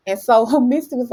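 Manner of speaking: laughing through the line; a real laugh breaks in; giggling while retelling. Real, not acted.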